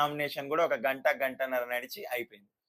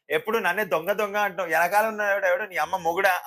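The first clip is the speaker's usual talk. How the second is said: higher and louder comic movie-thief whine; Brahmanandam impression; 4 semitones higher, 5 dB louder than usual. The speaker quoting the comedian's film line, higher and louder. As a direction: ham up the wounded innocence of a caught thief. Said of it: "విక్రమార్కుడు సినిమాలో బ్రహ్మానందం గారు అంటారు".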